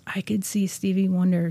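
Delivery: hushed, starstruck whisper; awed whisper. Retold or imitated. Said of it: "and she goes".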